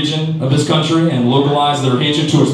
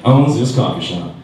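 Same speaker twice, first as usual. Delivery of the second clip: mock outraged bigot; 8 semitones higher, slower than usual. Angry intruder reacting to the black owner, hammed-up outrage. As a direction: play the sputtering bigot. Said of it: "He says".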